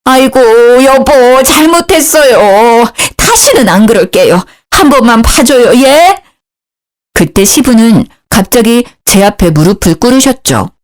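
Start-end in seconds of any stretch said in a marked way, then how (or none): 0.0-6.2 higher, wheedling plea to husband; lightly voiced mother-in-law begging; pleading mother-in-law. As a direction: beg him for one more chance. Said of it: "시모 역시요".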